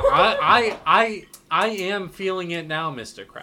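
high playful cartoon meme voice; hammed-up cartoon meme voice.

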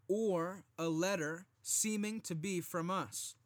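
firm, measured Bible reading; scripture reading. Acted. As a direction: read the verses with preacher weight. Reads scripture aloud.

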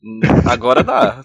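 talking with a mouth full of food. Real, not acted. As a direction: speak through a mouthful, slowly. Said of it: "Tô falando com a boca cheia".

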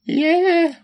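high, slow ecstatic cheer; excited. Real, not acted. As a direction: cheer like a thrilled fan. Thrilled about Abaddon return.

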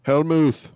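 "Hellmouth" said as "hell-mooth"; "Hellmouth" rhymed with tooth; mock corrected pronunciation. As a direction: say "Hellmouth" with a long oo in the second half. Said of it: "that's not how it's pronounced".

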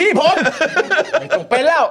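can't finish for laughing. Real, not acted. Host breaking up while joking to viewers.

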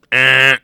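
short buzzer noise made with the voice; mock game-show reject buzz; imitated fail buzzer. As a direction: go "eh" like a wrong-answer buzzer. Mimics a buzzer for failed test.

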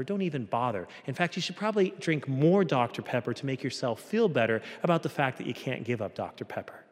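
quick, dismissive voice of accusation; accusing. Acted. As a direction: talk them out of it, fast and deflating. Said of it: "a voice that sounds like an accusation".

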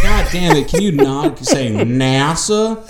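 mock exasperation. Host reacting to the movie dialogue, mock exasperated. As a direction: complain loudly, stretching out the end. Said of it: "And he's like".

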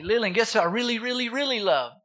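imitated dad winding up a guessing game; playful build-up. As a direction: tease with rising excitement.

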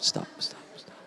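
holding back tears, voice dropping away; fading to breath. Real, not acted. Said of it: "I don't wanna cry".

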